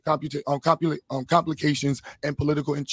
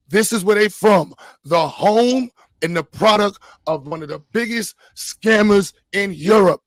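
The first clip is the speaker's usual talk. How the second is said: louder, punchy declaiming with drawn-out key words; emphatic orator; 4 semitones higher, 7 dB louder, slower than usual. Real, not acted. Host exposing scammers to the audience, emphatic. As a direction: hit the key nouns hard, slowly.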